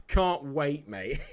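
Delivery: ordinary talk, nothing marked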